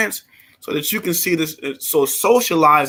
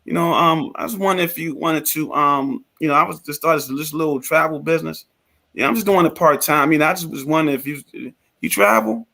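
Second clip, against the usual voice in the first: unexcited pitch. Shown as a demonstration. New partner pitching a little travel business, hesitant and unexcited. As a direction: demonstrate a half-hearted, unsure pitch. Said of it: "you sound like this".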